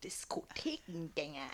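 teasing whisper; breathy mocking whisper.

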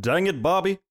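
Hank Hill impression. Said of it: "That's pretty good".

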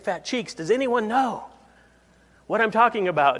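a lightly voiced pastor pleading for an answer, pitch climbing; pastor hinting harder. Pastor coaxing shy kids toward the answer, rising and pleading. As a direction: build toward a high hopeful question. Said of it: "he says".

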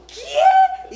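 very high, loud laughing squeak of confusion; baffled what. Retold or imitated. Wife retelling asking her husband, laughing and baffled. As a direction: yelp it in mock disbelief. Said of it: "Le digo yo a mi esposo".

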